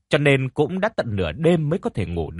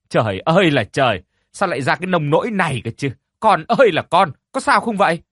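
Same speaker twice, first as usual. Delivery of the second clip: rising high and loud in panic, wailing to her daughter; anguished wailing; 5 semitones higher, 4 dB louder, faster than usual. A narrator's reading. Mother wailing over her unconscious daughter, anguished and high. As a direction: cry out over your child, voice climbing.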